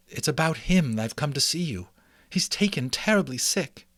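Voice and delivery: a worried mouse mother, relieved to see him. Acted. Mrs Frisbee, worried.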